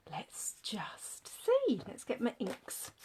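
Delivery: whispered aside to herself; whispering. Real, not acted. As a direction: murmur it under your breath. Muttering to herself while setting up.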